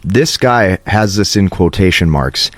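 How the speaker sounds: ordinary talk, nothing marked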